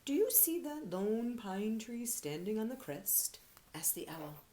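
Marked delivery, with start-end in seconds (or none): 0.0-3.4 owl voice. Acted. Owl character speaking.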